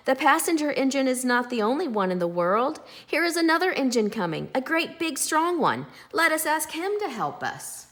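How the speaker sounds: little clown spotting rescue on the tracks; eager call. A narrator's reading. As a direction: call out with bright hope. Clown calling out hopefully.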